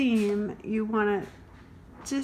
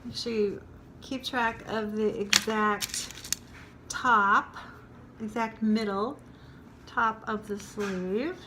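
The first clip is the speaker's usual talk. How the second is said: pins in mouth. Real, not acted. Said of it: "sorry, I have a pin in my mouth".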